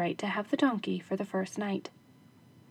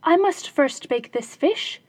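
higher, louder housewife; wife's voice; 4 semitones higher, 6 dB louder than usual. Acted. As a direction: brush him off, busy cooking. Wife answers husband.

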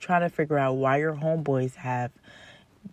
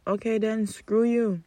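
dismissive; 5 semitones higher than usual. Real, not acted. Dismissing the upset guy.

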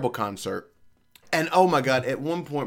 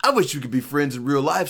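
mock singer. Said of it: "He's like".

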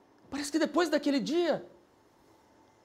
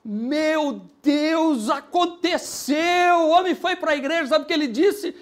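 excited preaching; 3 semitones higher, 9 dB louder, slower than usual. Real, not acted. Pastor celebrating the husband going to church, loud joy. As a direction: shout the good news to the church.

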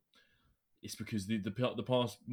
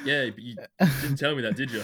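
indignant; 5 semitones higher, 10 dB louder than usual. Real, not acted. Playful accusation between friends.

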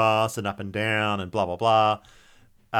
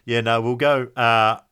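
laconic outback drawl. Retold or imitated. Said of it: "And I'm like".

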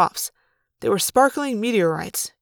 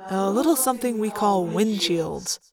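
dry; 4 dB quieter than usual. Acted. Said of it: "Tobias said dryly".

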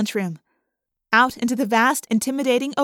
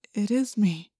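doubtful; 4 dB quieter than usual. A narrator's reading. Tobias staring at his own fingers, doubtful. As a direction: say it as if you doubt it. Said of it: "sounding like he doubted it".

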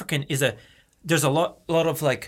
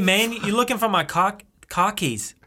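"car keys" with dropped R in Boston style; Boston accent; 4 semitones higher than usual. Acted. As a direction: ask like a Bostonian. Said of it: "you're saying car keys in Boston".

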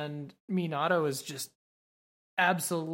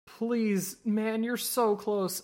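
raised, drawn-out mock plea; exasperated pleading; 5 semitones higher, slower than usual. Viewer begs a frustrating character who is so close, exasperated. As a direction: plead in fond frustration, pitched up.

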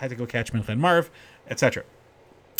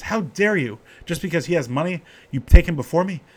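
retold indignant protest, pitched higher; insulted outburst; 5 semitones higher, 3 dB louder than usual. Poor man confronting the Rebbe after being passed over, indignant. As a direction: act out an affronted man, voice raised. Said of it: "very insulted".

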